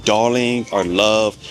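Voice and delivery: drawn out slowly, the way a Brit calls you love; slow British endearment. Shown as a demonstration. Vlogger showing how Brits address you, slow and fond. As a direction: linger on darling like a shopkeeper would. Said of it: "You will be called".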